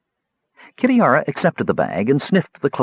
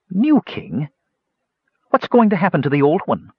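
barely concealed fury; 7 semitones higher than usual. A narrator's reading. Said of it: "with barely concealed fury".

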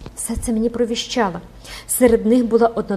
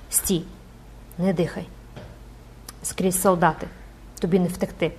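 abrupt and grim; 6 dB quieter than usual. Acted. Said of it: "уривчасто, похмуро сказала".

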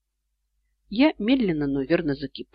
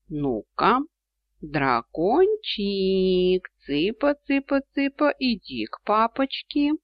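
coaxing a pet; 5 semitones higher, slower than usual. A narrator's reading. Calling the dragon like chickens.

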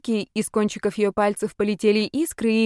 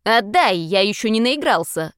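demanding shout; 4 dB louder than usual. Acted. Old ghost demands his turn.

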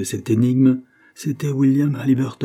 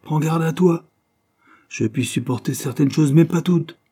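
high, loud, angry threat; indignant, pitched-up warning; 7 semitones higher, 5 dB louder than usual. A narrator's reading. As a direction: warn them off in rising anger. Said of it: "Henry lancèrent un éclair de colère".

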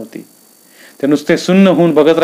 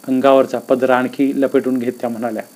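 ordinary delivery, nothing marked

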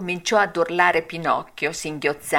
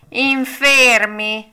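higher, louder, slow echo; cat echoing; 5 semitones higher, 6 dB louder, much slower than usual. A narrator's reading. The cat echoing the fox, slow and loud. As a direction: drag the word out like a sly cat. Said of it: "ripeté il gatto".

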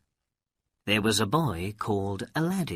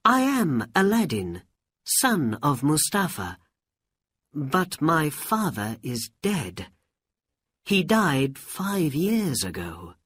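put-on higher-pitched boy's voice; young boy answering; 6 semitones higher than usual. A narrator's reading. Aladdin telling a stranger about his father, high boyish voice. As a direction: explain simply in a high boyish voice.

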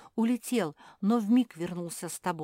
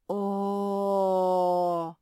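stone's groan; 4 dB louder than usual. A narrator's reading. Stone's loud cry.

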